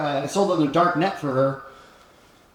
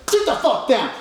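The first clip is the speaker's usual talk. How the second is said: retold yell; 9 semitones higher than usual. Retelling how he ordered the dealer to sit, mock yell. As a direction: bark the order as he replays the hit.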